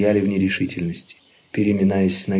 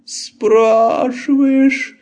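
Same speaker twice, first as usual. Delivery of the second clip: very slow, high mock-pained moan; fake groaning; 13 semitones higher, 5 dB louder, much slower than usual. Laban faking a sore throat, slow hammed-up moan. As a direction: drag it out like a fake invalid. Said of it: "опять застонал Лабан".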